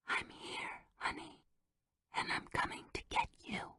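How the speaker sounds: hushed, breathy reassurance; whispered promise to come. Acted. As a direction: whisper to the child as if soothing. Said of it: "she whispered".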